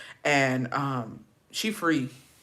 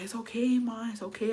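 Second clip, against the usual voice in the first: high, soft placating voice; retold soothing; 6 semitones higher, 5 dB quieter than usual. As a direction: imitate a son calming his mom. Son soothing his angry mother.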